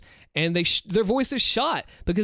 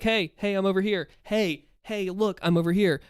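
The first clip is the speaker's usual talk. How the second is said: calling across room; 3 semitones higher than usual. Shown as a demonstration. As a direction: get someone's attention across the room without yelling. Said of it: "somebody was across the room".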